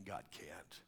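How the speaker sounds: very low, hushed doubt; unspoken thought. Acted. Preacher voicing doubt in your soul of souls, hushed. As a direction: let it sink almost to nothing. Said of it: "not verbally to yourself".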